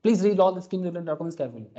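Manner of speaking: mock ad disclaimer read; hammed-up mutual fund ad voice-over; imitating the fast disclaimer. Shown as a demonstration. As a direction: rattle off the legal disclaimer like an ad voice-over. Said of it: "ऐसे बोलता था".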